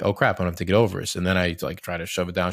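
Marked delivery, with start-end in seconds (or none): 0.0-1.2 sudden realization. Retold or imitated. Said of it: "then I'm like".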